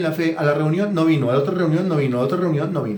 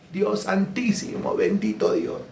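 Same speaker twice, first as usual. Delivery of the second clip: asombro; 2 semitones higher, 6 dB quieter, slower than usual. Acted. Exclamación escandalizada.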